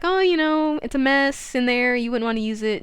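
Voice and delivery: mildly evasive excuse, starting high and settling down; sketchy. Retold or imitated. Milton puts Susan off using his bathroom, sketchy. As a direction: act a little shifty, stalling. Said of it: "coming off a little bit sketchy".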